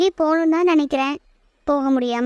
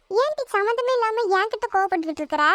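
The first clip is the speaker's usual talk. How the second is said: higher-pitched sisterly complaint; mildly aggrieved, raised pitch; indignant protest; 5 semitones higher than usual. Acted. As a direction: protest at being snapped at for nothing. Acted sisters' quarrel, protesting.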